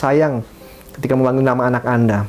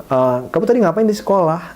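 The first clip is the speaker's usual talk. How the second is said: pointed questioning, pitched up; interrogating tone; 5 semitones higher than usual. Shown as a demonstration. Parent questions child about school, interrogating.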